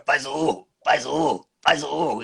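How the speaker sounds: lightly voiced boy demanding the roar; a hint of the little boy pleading; kid character's line. Voice actor retelling the boy's line, lightly voiced. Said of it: "o garotinho com pirulito, fica".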